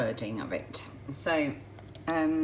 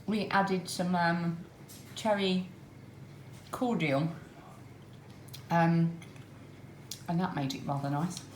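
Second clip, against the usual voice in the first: talking round a mouthful; chewing chocolate while speaking; eating chocolate; 4 dB quieter than usual. Real, not acted. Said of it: "I've got chocolate in my mouth".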